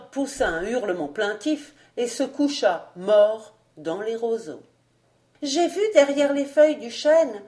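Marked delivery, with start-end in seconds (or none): 5.4-7.4 put-on high, louder little-boy voice; child's voice. A narrator's reading. Child telling Vaunois of the white figure, high child's voice. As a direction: voice a child, pitched well up. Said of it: "dit l'enfant".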